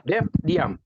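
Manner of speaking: mildly sharp retold command; half-strength scolding to hush someone; retold stern snap. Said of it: "saya bentak".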